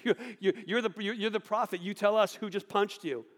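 jeering high voice, laughing through the words; mocking laughter. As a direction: taunt a blindfolded man with a cruel laugh. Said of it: "they would mock and laugh and go".

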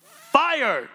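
high loud robotic shout of Fire!; piercing mock alarm shout; alarm yelling. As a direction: yell it like a blaring smoke alarm. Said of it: "it starts yelling".

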